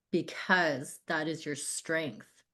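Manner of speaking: slow, soft and moved; quietly heartfelt, taking your time; getting emotional. Real, not acted. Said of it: "I'm getting emotional talking about it".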